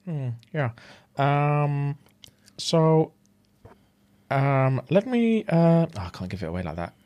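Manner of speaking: a hint of Kermit reading a bedtime story, with mm-hmms between lines; mild Kermit read to lull the listener to sleep; Kermit the Frog impression. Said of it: "I know this style of speaking".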